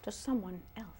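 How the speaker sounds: measured storyteller reading over music; unhurried narrator setting the scene; story narration. Acted. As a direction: tell it like a children's tale. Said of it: "start narrating it".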